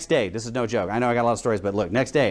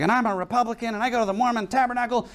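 higher-pitched imitation of an upset lady; freaking out; 5 semitones higher than usual. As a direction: mimic someone mildly worked up. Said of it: "This lady is just freaking out".

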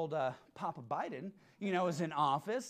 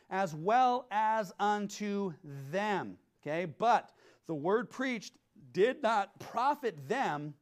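scripture reading; 3 dB louder, slower than usual. Acted. Preacher reading Hebrews aloud, slow and solemn. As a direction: read it slowly, solemnly. Rereading the verse.

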